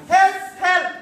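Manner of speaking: light play-acted shout. Shown as a demonstration. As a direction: demo the damsel's cry for help. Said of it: "you shout".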